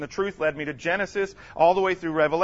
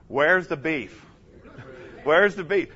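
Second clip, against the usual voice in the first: call and response; 3 semitones lower, slower than usual. Shown as a demonstration. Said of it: "Everybody say this".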